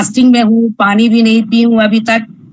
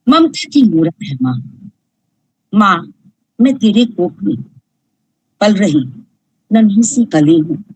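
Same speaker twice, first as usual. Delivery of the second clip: poem recital; 2 semitones lower than usual. Acted. Reciting her own poem about a mother, tender and measured. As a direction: linger on माँ as if calling out to her.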